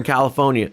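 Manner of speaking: California with the R dropped, "Cali-FOH-nya"; mispronounced. Real, not acted. Streamer fumbling his own state's name, mispronounced. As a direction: slip on California, saying it "Califonia". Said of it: "can't even say my own state name".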